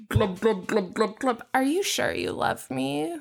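mermaid voice. Acted. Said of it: "Catholic mermaid".

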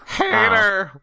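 Hater said as HAY-der; high mock Hater. Shown as a demonstration.

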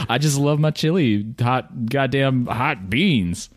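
a hint of the folksy ad man; chipper 1950s ad. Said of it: "You do that a little too well".

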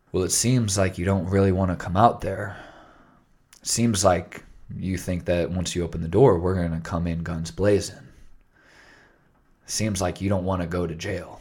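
lightly voiced late-night radio DJ; calm, understated DJ delivery; low FM DJ voice. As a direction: talk them down calmly, like a radio host. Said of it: "uses this low F M D J voice".

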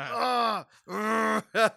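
hammed-up annoyed groan; mock exasperated groan. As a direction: groan as if an accent is driving you crazy. Mimics being driven crazy by accent.

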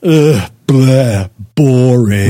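mock disgusted ugh, blah; disgusted bleh. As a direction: groan it like a bored kid.

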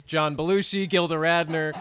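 Don Pardo announcer. Retold or imitated. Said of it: "Don Pardo goes".

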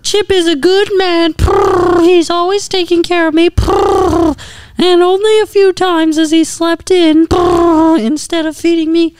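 high, earnest horse voice; talking horse voice. Acted. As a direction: speak up high like a loyal horse.

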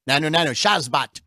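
a light alien sitcom voice on the greeting and swear word; lightly voiced Mork, not far from his own voice; imitating Mork. Host shows his cohost Mork's catchphrases, lightly voiced alien. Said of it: "That was his swear word".

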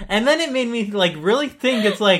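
laughing. Real, not acted. Laughing while continuing story.

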